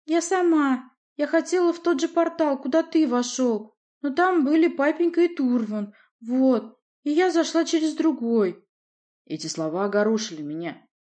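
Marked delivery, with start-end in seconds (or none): 0.0-8.7 put-on high, girlish pleading voice; a lioness girl, flustered and breathless; girlish high voice, anxious; young princess voice. Nadya's voice, high.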